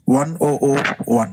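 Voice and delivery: digits one by one, each zero said "oh". Shown as a demonstration. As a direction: read the zeros as "oh oh" between the ones. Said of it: "They're calling like O".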